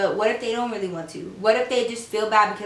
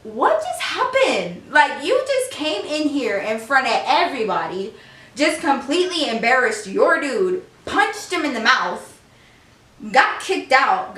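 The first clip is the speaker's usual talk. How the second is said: incredulous. Retold or imitated. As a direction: spell out each outrage like you can't believe it. Retold disbelief at the couple.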